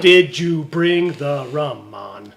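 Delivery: put-on slow second go at Jamaican accent. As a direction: try the Jamaican accent again, slowly. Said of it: "That's my Jamaican accent".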